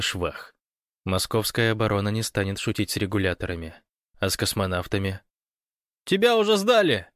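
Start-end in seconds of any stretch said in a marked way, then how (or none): 6.0-7.1 high, loud shout of alarm. Acted. Fyodor warning Gosh over the phone, shouting. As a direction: yell the warning down the line. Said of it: "кричал Фёдор".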